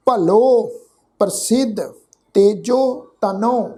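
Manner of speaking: measured verse reading, phrase by phrase; deliberate teaching recitation; scripture recitation. Shown as a demonstration. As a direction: recite the sacred verse with a pause after each phrase. Recites the verse being taught.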